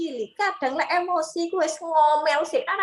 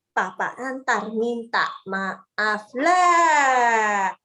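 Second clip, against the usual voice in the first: coaxing father; 3 semitones lower, 3 dB louder, much slower than usual. Retold or imitated. Father coaxing child to apologise.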